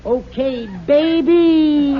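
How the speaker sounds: hard-boiled tough. Acted. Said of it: "play a hard-boiled character".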